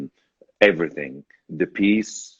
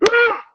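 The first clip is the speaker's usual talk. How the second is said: audience gasp; 4 dB louder than usual. Retold or imitated. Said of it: "two thousand people going".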